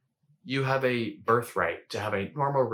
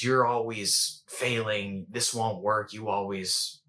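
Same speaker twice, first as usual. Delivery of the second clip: lightly voiced inner critic, slowed down; a hint of slow, negative self-talk; shame voice; slower than usual. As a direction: drag out the criticism a little. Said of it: "You know, that shame voice".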